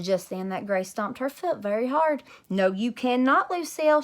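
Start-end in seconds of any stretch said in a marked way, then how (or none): 2.5-4.0 loud, high angry holler. Acted. Grace hollering at Lucille, loud and high. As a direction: holler it and stomp your foot. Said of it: "she hollered".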